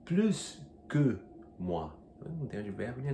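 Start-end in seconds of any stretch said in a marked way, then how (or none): 0.0-1.9 plus que with a clear S, plooss; S pronounced. Shown as a demonstration. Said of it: "Il boit".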